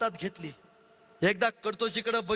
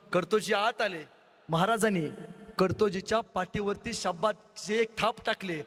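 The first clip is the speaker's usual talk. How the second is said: plain reading voice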